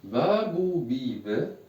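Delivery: teacher drilling syllables; syllable recitation. Shown as a demonstration. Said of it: "je répète".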